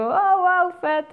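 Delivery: high, bright-eyed mock amazement at the red backdrop; impressed wow. Imitating people seeing her photo, mock impressed wow. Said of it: "En mensen denken".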